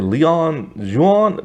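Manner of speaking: "Leon Juan" slowly, like "lee-ON zhwon"; uncertain pronunciation. Retold or imitated. Reviewer unsure of the hero's name, tentative "Leon Juan". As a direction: try out "Leon Juan" as a slow guess. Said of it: "don't even know what to call him".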